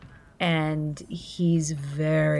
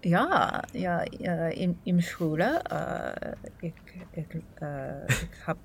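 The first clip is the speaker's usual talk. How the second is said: halting school German. Pretend. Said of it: "how's your German?".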